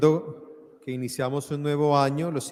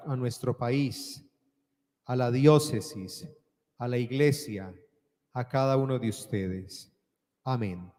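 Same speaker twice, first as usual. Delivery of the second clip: solemn prayer. Acted. Priest's closing blessing prayer.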